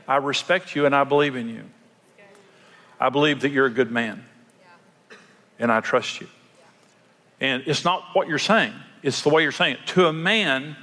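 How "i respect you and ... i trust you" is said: respectful tone. Shown as a demonstration. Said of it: "the tone of what you're saying".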